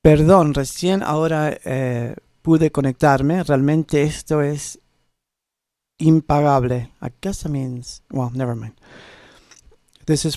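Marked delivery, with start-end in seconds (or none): 0.0-6.9 reading Spanish aloud. Shown as a demonstration. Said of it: "I'm gonna try to read it in Spanish, which will probably be atrocious".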